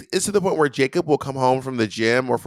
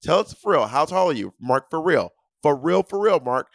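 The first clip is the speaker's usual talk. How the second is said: retold nagging demand, pitched up; insistent pressing; 4 semitones higher than usual. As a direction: press them for a straight answer. Pressing opponent for a straight answer.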